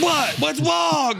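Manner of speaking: very high, squealed imitation; mock protest. Storyteller imitates the kid challenged in class, squealed protest. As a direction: yelp it like an oblivious kid protesting. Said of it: "He was just like".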